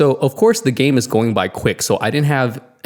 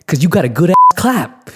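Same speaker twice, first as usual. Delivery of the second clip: teasing compliment; 5 semitones higher, 5 dB louder than usual. Retold or imitated. Joking compliment to fan.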